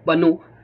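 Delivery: پنو ending in a long oo; wrong vowel demo. Shown as a demonstration. Teacher showing the wrong way, پنو ending in oo. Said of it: "نہ او کے ماترا پنو".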